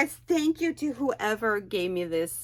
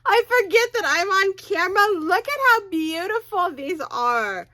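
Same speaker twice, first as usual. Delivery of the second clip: much higher, louder and fast; excited gushing; 10 semitones higher, 8 dB louder than usual. Real, not acted. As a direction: burst out in delight over the gift. Gift unboxing, overwhelmed with delight.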